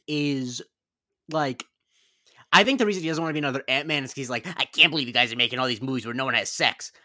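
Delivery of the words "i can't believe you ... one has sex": lightly voiced bad actor impression; a hint of a leading man's voice, half-hearted; Michael Douglas. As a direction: loosely imitate the actor, lightly. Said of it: "that's a bad impression".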